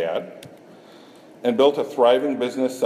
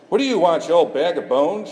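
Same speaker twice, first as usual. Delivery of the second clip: higher, louder mock snap at the wolf; snapped; 7 semitones higher, 4 dB louder than usual. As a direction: bark it at the wolf, hammed up. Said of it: "she snapped".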